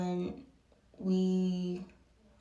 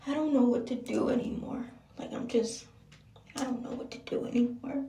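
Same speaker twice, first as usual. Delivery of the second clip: tag; 4 semitones higher than usual. Retold or imitated. Retold despair, high strained voice.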